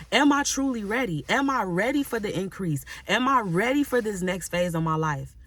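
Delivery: rising, searching plea to God; earnest self-questioning prayer. Shown as a demonstration. Preacher modeling a prayer for the congregation, earnest and rising. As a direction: ask yourself before God, building to a cry. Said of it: "really ask yourself and be real with yourself".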